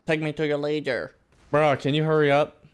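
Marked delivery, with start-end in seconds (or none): 0.1-1.1 hammed-up take me to your leader; playful alien parody; lightly voiced alien; mock alien cliché. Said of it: "mocking alien line".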